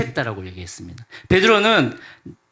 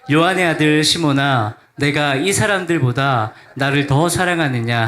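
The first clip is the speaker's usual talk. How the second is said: congregational scripture reading. Shown as a demonstration. Preacher leading the church through the verse, read firmly. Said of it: "다 함께 읽어보도록 하겠습니다".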